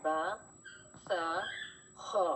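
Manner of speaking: ब, स, ख each held a little long; stretched vowels. Shown as a demonstration. Teacher modelling the drawn-out reading for students. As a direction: draw every sound out gently. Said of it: "इसको हम थोड़ा सा खींच के पढ़ेंगे".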